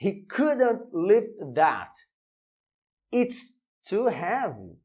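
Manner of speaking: he couldn't lift that read slowly and clearly; teacher reads the example at a slow pace; slow, careful English demo; slow model reading. Shown as a demonstration. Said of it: "Vamos pra mais um exemplo".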